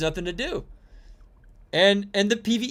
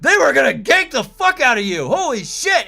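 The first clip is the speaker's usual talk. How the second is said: high, loud excited disbelief; amazed retelling; 6 semitones higher, 4 dB louder than usual. Retold or imitated. Amazed at wife killing both invaders. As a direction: gush at her in disbelief. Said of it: "I'm like".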